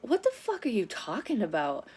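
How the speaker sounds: confrontational. Retold or imitated. Teenager confronting dad's girlfriend in front of him, confrontational. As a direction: retell confronting someone in indignation. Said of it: "confronted her 'cause I was like".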